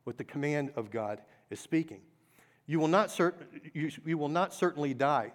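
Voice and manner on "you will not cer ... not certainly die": bold serpent claim. Acted. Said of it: "the serpent said to the woman".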